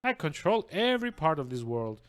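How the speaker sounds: smug, theatrical villain monologue; a lightly voiced gloating villain. Reads villain monologue aloud.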